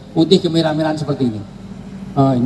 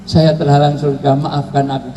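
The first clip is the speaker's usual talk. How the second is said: mock crying.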